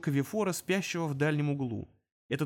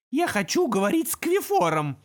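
louder, surer imp demand; louder, confident; 9 semitones higher, 6 dB louder than usual. Acted. Imp repeating his demand, louder. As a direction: say it firmly. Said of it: "уже громче и уверенней".

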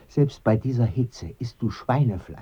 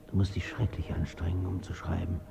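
soft, hushed whisper; quietly whispered memory of the deathbed; 4 semitones lower, 6 dB quieter than usual. Acted. Recalling the deathbed scene.

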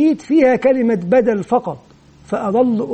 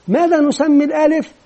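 higher-pitched classroom question; lightly acted teacher's question; teacher quizzing pupils; 5 semitones higher than usual. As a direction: prompt the class for an answer. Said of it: "وأبدأ أقدم المعلومة من خلال أسئلة".

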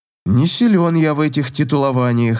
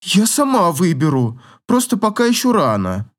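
higher, lightly voiced proud young woman; voiced young lady, defensive; girl's voice; 4 semitones higher than usual. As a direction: play the haughty girl making excuses. Girl voiced again.

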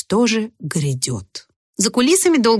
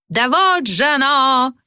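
fairy godmother; 7 semitones higher, slower than usual. A narrator's reading.

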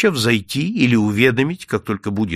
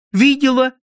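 high, loud joyful cry; joyful exclaim; 14 semitones higher, 6 dB louder than usual. A narrator's reading. Girl cries out gladly to the detective. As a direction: blurt it out gladly like a child. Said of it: "воскликнула радостно девочка".

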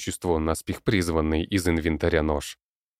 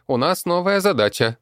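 high loud goblin, "задача" said properly; goblin saying задача correctly; 13 semitones higher, 6 dB louder than usual. A narrator's reading. Goblin corrects the word before the crowd, high-pitched.

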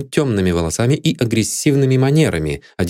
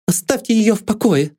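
high, heated protest; passionate; 14 semitones higher than usual. A narrator's reading. Maid Lydia defends her dead mistress. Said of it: "страстно возразила Лидия".

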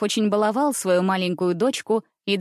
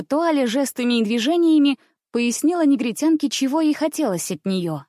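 ordinary delivery

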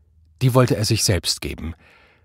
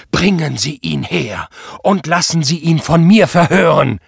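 loud, higher, thundering order; blustering anger; 6 semitones higher, 7 dB louder than usual. A narrator's reading. Prall demands to interrogate the suspect himself, blustering loudly. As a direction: bluster it out as a furious command. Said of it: "polterte Prall".

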